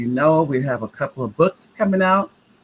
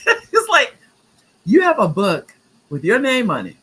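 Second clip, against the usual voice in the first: laughing disbelief; 9 semitones higher, 6 dB louder than usual. Real, not acted. Laughing at granddaughter's reply.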